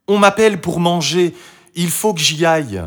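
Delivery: put-on high, loud, hurried-off girl; Marie. A narrator's reading. Marie must leave for dinner, high and sudden. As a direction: announce it abruptly in a child's voice.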